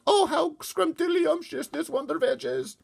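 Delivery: very high, slow, sing-song delight; mock delighted exclamation. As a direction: gush over the veg in an imagined voice. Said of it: "you will be shouting out".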